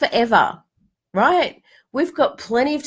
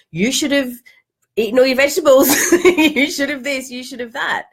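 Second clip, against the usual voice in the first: a hint of a scolding parent, a bit higher; berating parent; 4 semitones higher than usual. Inner parent nags the sick child, mock berating. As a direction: nag like a mildly cross mum, half laughing. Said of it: "listening to this berating parent going".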